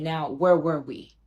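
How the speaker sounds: slow, drawn-out flirty come-on; mock seductive. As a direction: purr it slowly, playing the seductress. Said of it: "opens her robe wide and said".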